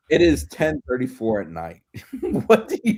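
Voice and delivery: laughing. Real, not acted. Laughing at late-night tangent.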